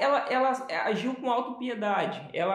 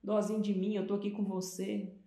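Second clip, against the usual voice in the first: mock self-pity; 2 semitones higher, 3 dB quieter than usual. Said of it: "Aí é aquela coisa assim".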